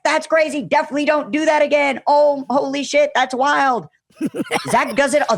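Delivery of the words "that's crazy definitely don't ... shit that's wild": higher and louder, half-laughing; the guide reacting in disbelief; excited alarm. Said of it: "Ocean's like".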